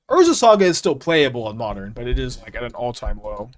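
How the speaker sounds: talking while crunching an apple; eating an apple. Real, not acted. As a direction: speak through a crunchy bite. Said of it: "Sorry about all the crunching".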